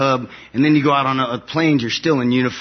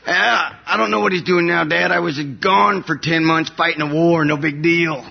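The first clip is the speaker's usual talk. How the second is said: sarcastic; 5 semitones higher than usual. Retold or imitated. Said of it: "sarcastic reply to dad".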